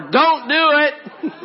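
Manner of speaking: high, slow, laughing mom warning; a mother cutting in with a laugh, stretched out. Retold or imitated. Mom catching grandpa in the act, high and slow with a laugh.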